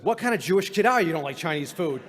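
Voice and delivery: mock disgust at his kid; disgusted, disappointed. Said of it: "full of disgust and disappointment".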